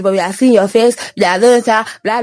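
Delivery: usual speaking voice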